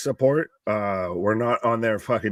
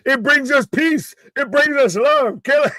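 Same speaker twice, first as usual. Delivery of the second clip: Montgomery Burns alien voice; 10 semitones higher, 4 dB louder than usual. Retold or imitated. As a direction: intone it like a creepy alien leader. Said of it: "Montgomery Burns alien impression".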